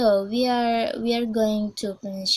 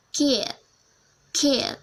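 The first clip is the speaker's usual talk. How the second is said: put-on New Zealand "kid", raised pitch; demonstrated New Zealand "kid"; New Zealand English; 4 semitones higher than usual. Shown as a demonstration. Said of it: "we are going to New Zealand English".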